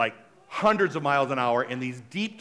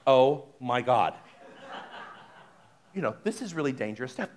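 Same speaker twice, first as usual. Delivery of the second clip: nervous; 5 semitones lower than usual. Retold or imitated.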